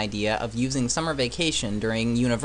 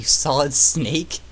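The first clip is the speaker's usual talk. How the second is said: slow incredulous; 4 dB louder, much slower than usual. Acted. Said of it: "Who the fuck are you".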